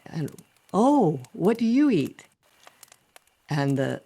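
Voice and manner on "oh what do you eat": high, loud, swooping question; big open vowels, cartoon curiosity; wide-mouthed frog. Frog quizzing the bunny, high and wide-mouthed. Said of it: "trying to open my mouth really wide".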